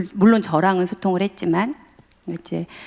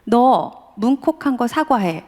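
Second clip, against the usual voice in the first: fed-up father; 4 semitones higher, slower than usual. Retold or imitated. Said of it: "열이 받아가지고".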